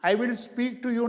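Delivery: I will said in full, not contracted; teacher shows what to avoid; wrong full form. Shown as a demonstration. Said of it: "that is wrong".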